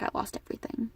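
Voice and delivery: whispered, barely voiced repeat; hushed heartbroken echo. Real, not acted. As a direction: let it fall to a breath.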